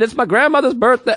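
high-pitched imitated excitement; excited. Sweet lady explaining herself to passengers, excited. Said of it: "I get excited".

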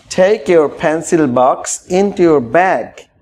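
tie your tie stretched out very slowly; slow model phrase. Shown as a demonstration. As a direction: draw out each word for learners. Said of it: "slow model phrase".

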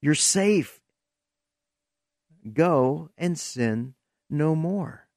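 soft, quiet, slow reassurance; a lightly voiced soft Jesus comforting the woman; tender reassurance. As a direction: gently tell her she's safe, hushed. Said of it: "And Jesus says".

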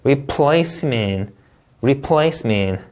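"Replacement" slow, with stress on PLACE; stress demo. Shown as a demonstration. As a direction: lean on the middle syllable of "Replacement". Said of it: "강세 주의해서 읽어볼게요".

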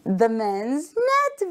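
slow, stretched phrase; slow model reading. Shown as a demonstration. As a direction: say it slowly for children. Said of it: "The next one is".

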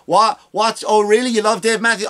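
high, mock-amazed squeal; mock surprise. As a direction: act amazed he likes her band.

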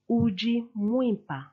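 Uji Mwimpa, stress on Uji, falling tune; Chiluba phrase. Shown as a demonstration. Teacher models you are beautiful in Chiluba. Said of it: "you are beautiful".

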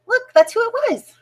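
high, hushed discovery after a gasp; gasp, then point it out in a high voice; gasping surprise. Pretend. Reader gasps at owl's reveal.

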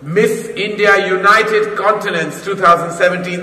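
pageant host. Acted.

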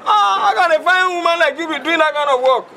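woo her with stretched, lilting words; flirty coaxing. Acted. Boss woos the card seller.

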